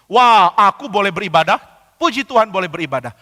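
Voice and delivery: gushing, imitated self-congratulation; mock delight. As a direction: exclaim like a proud privileged worshipper. Voicing worshippers proud of privilege.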